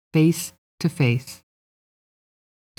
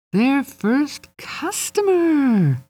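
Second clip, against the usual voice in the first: excited; 11 semitones higher, much slower than usual. A narrator's reading. Fairy thrilled by first client.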